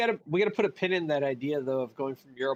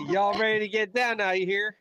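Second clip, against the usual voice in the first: put-on Alabama accent; 3 semitones higher than usual. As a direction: hype the crowd, Alabama style. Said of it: "That's horrible".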